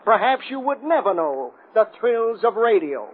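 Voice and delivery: rabble-rousing radio speech, slightly muted; radio address. Acted. Burton addressing the city over the radio, hypnotic persuasive speech. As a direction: persuade the listeners like a smooth demagogue. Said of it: "the type of voice that can make you hate anything he sneers at".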